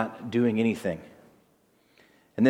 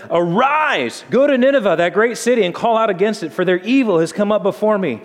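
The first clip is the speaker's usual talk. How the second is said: booming divine command; 6 semitones higher, 4 dB louder than usual. Acted. God commands Jonah to Nineveh.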